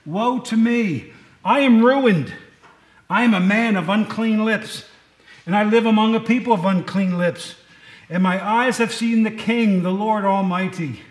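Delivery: dramatic Isaiah lament; anguished cry. Acted. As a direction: cry out ruined before God. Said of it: "and he says this".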